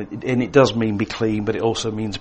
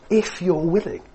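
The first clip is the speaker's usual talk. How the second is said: hesitant plea; 8 semitones higher than usual. Retold or imitated. Leper's hesitant plea to Jesus.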